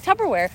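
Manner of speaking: mock his Tupperware as tubberware; imitating Tupperware said wrong. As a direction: mimic friend's odd Tupperware. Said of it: "He's like".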